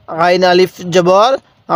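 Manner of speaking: "আ" stretched long over four counts; four alif elongation. Shown as a demonstration. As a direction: draw "আ" out long and slow. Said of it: "এই আইনের মধ্যে টানটা একটু লম্বা দিব". ("আ" চার আলিফ লম্বা টেনে)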